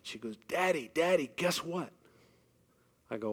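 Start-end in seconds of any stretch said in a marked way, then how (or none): 0.5-1.9 higher, lightly voiced eager girl on the phone; a hint of a daughter bursting with news; excited daughter. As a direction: imitate a thrilled daughter calling home. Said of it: "she's really excited".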